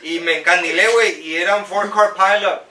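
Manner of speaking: lightly acted accident victim testimonial in Spanish; insurance commercial testimonial. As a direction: tell the crash story like a mock ad witness. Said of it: "we need to do your insurance commercial".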